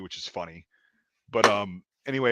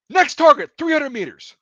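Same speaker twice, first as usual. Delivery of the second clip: very high, loud target call; imitated screaming; 8 dB louder than usual. Irate gunner calling out targets mid-argument, screaming. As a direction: yell the target out, still worked up. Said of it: "he's just, like, screaming".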